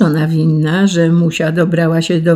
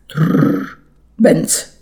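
clock crash. A narrator's reading. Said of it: "wrzasnął zegar".

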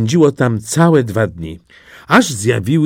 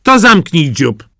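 loud, higher snapping hen; hen's loud, higher put-down; bossy hen; 5 semitones higher, 6 dB louder than usual. Acted. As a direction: shut the duckling up. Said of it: "spytała".

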